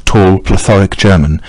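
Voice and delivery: usual speaking voice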